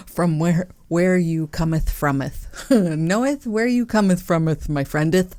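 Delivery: hammed-up archaic scripture voice, laughing; mock biblical prophet. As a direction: giggle through old-style -eth endings. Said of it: "like, biblical?".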